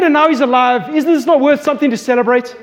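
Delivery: rally everyone to the feast; joyful father. Retold or imitated. Father rejoices over returned son.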